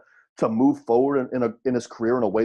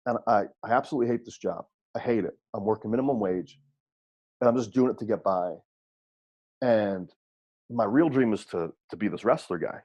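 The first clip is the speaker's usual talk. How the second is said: depressed wrestler; 3 semitones lower than usual. Retold or imitated. Retold depressed wrestler on phone.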